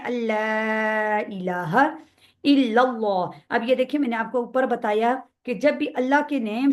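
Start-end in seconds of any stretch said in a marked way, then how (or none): 0.0-3.6 slow recitation with अल्ला stretched long; long madd. Shown as a demonstration. Teacher demonstrating the lengthened madd, slow recitation. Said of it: "इसको हमने लंबा करके पढ़ना है".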